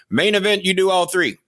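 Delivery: high-pitched mock Japanese accent; high, put-on Japanese-accented voice; fake Japanese accent. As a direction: imitate a wrestler in an exaggerated Japanese accent. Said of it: "fake Japanese accent".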